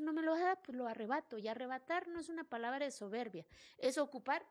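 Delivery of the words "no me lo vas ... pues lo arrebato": defiant declaration. Retold or imitated. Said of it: "aprendí a decir".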